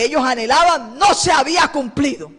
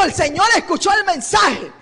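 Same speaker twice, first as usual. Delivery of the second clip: joyful messenger; 6 semitones higher than usual. Retold or imitated. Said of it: "Le dijo".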